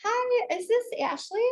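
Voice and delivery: high, honeyed sales voice; sweet as pie on the phone; sugary sweet. Acted. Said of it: "like, so sugary sweet".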